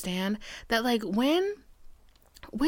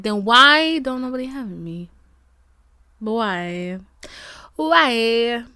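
exasperated why; 4 dB louder, slower than usual. Real, not acted. Pleading question.

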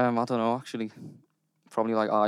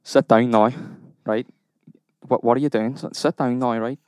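put-on a loose Irish accent with a menacing edge. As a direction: play a hard Irish hothead, lightly.

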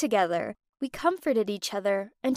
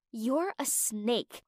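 slow contempt; 5 dB quieter, much slower than usual. Acted. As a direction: spit it slowly with disdain. Aaliyah hurls an insult.

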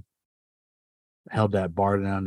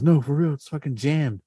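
louder, higher mock protest; insistent retold reply; 6 semitones higher, 4 dB louder than usual. Friend at the door protesting it's jammed, louder and higher.

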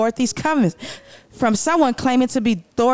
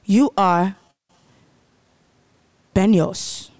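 lower mock Spanish rant; 4 semitones lower than usual. Dorothy speaking Spanish.

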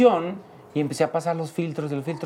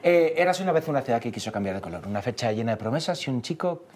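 lower, softer recital in a Spain accent; Spanish accent; 6 semitones lower, 4 dB quieter than usual. Shown as a demonstration. Performing show lines for friends on request, Spanish accent. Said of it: "con el acento".

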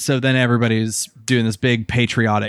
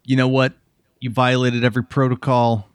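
put-on Brooklyn accent. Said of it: "I'm still in the Brooklyn accent".

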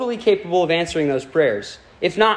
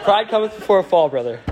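laughing tease; 4 semitones higher than usual. Real, not acted. Preacher teasing a friend in the congregation, laughing. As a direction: rib him with mock scripture.

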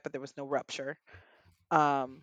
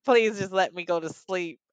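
retold begging; 3 semitones higher, 6 dB louder than usual. Wife begging her husband to let her rest, retold pleading. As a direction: plead wearily, rising in pitch and volume midway. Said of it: "I begged him".

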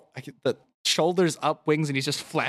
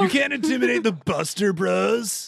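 cocky bro voice; 7 semitones higher than usual. Acted. Buster Bro taunts player.

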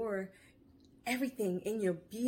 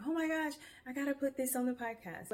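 quick, higher-pitched burst of inspiration; mock yourself struck by a sudden idea; acted excitement; 6 semitones higher, faster than usual. Acts out being hit by an idea.

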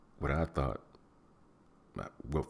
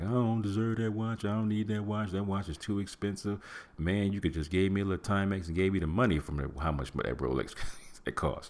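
higher put-on voice of a listener refusing a gift; mock humble refusal; 5 semitones higher than usual. Friend pushes a Rolex on him, he refuses in a higher voice. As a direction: play the modest guy who won't take the watch.

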